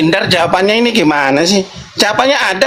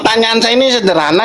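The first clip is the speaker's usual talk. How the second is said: ordinary talk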